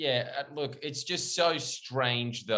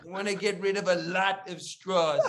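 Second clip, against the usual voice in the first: Trump impression; 6 semitones higher, 4 dB louder than usual. Friend mocks Trump's straw rant, hammed-up Trump voice. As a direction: lean on each word like a rally speech. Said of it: "an inflection in Trump's voice".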